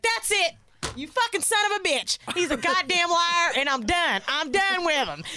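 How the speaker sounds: mock furious rant. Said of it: "She was like".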